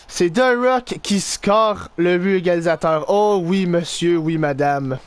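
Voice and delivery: lightly put-on announcer, settled and descending; goal announcer. Player announcing the equalizer to ladies and gentlemen, announcer. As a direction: announce the scorer to the crowd, composed.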